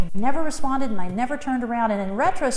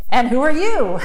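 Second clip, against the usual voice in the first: cheerful lilt, louder and bright; lilting question; 7 dB louder than usual. Retold or imitated. To the spiritual being, cheerful lilting question. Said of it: "with a lilt in my voice".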